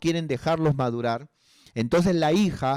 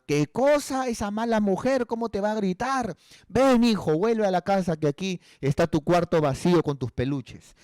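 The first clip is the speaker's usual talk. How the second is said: indignant doting mother; 5 semitones higher than usual. Retold or imitated. Mother indignant, calling son home.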